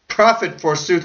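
high, mocking "Profit, forsooth"; scornful. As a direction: sneer at the excuse. Scornful retort.

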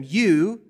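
YOU said with weight; stress on you. Shown as a demonstration. Preacher reading Jesus to disciples, stress on You. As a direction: lean on the word You. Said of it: "you" is emphatic".

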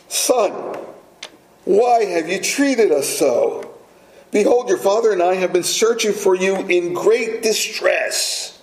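lightly voiced mother, pleading; emotional mother. Preacher voicing Mary scolding her son, mildly upset. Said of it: "it was said more emphatically, more emotionally".

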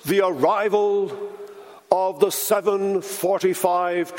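slow, posh station announcement; posh announcer voice. Retold or imitated. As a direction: announce it like a grand posh tannoy. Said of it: "very posh voice".

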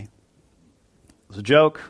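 drawn out, rising at the end; slowly explained. Real, not acted. Preacher slowly telling the congregation it was a joke. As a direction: spell out that it was only a joke.

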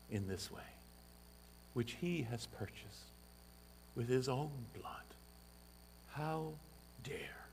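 grieved reproach, voice sinking away; tearful rebuke. Retold or imitated. Old elder rebuking a woman who scorned the church, tearful and soft. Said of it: "with tears in his eyes".

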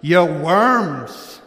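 hint of a Scottish minister's accent, scolding; lightly Scottish, scornful preacher greeting. Pastor imitating a Scottish minister scolding his flock, lightly Scottish. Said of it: "in an accent that I can't replicate, but think that Scottish accent".

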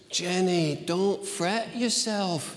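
put-on Scottish accent. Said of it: "I don't do a Scottish accent".

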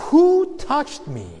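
loud, high voice of authority; Jesus. Shown as a demonstration. Preacher showing how Jesus asked the crowd, loud and commanding. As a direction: call it out slowly with authority. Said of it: "with loud voice".

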